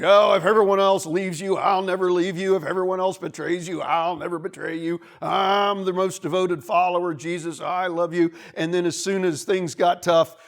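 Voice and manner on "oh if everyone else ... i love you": loud, over-eager vow of loyalty; hammed-up devoted follower protesting his loyalty; boastful Peter. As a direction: gush big promises, punching the first words. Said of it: "Peter's like".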